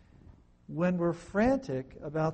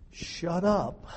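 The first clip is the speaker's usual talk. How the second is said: blunt command; 2 semitones higher, 4 dB louder than usual. Retold or imitated. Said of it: "Some translators say".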